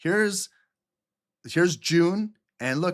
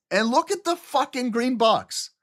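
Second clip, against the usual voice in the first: put-on a light French Canadian accent, higher and excited, swearing; 7 semitones higher than usual. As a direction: burst out with a hint of French Canadian. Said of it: "that's my French Canadian".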